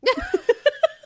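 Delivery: squealing high laugh; high laughter. Real, not acted. Laughing at her own impression.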